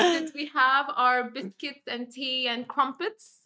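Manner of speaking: hammed-up tea-and-crumpets English accent. Shown as a demonstration. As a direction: draw it out in a stereotyped English accent. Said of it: "I'll just do the English accent".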